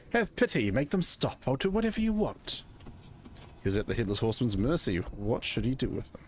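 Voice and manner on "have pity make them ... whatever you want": begging. Acted. Voicing apprentice begging horseman.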